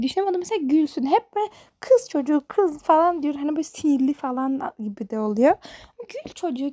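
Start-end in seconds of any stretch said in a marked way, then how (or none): 6.1-6.7 soft. Shown as a demonstration. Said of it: "gerçekten gül çocuğu".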